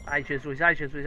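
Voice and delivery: panicked gasping cries; scared horror game streamer. Real, not acted. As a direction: yelp in real fright.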